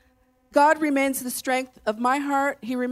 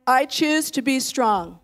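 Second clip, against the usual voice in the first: firm and slow, a strong declaration; 2 semitones higher, slower than usual. Shown as a demonstration. Pastor leading the church, firm strong declaration. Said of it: "say it in your strongest voice".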